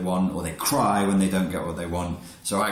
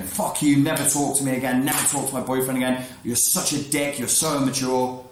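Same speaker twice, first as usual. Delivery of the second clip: higher mock tirade; mock angry outburst; 4 semitones higher than usual. Girl attacking the unresponsive boy, a higher mock tirade. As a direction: fire it off like an offended teen. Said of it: "back on the offensive".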